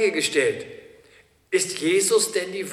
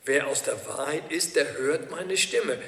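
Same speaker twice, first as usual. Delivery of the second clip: preacher repeats Jesus' words to the congregation, slower and softer; slower, quieter repeat. Shown as a demonstration. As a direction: repeat the key verse slowly and softly so it sinks in, slowing on "Stimme". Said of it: "Ein ganz wichtiger Satz".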